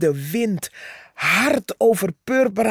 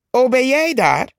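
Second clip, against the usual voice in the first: mock surprise; 7 semitones higher, 5 dB louder than usual. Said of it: "vroeg Purperhart".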